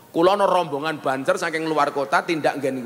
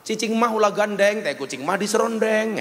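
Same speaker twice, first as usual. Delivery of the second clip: Sundanese rhyme; 5 semitones higher than usual. Shown as a demonstration. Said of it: "saya satu dua tahulah".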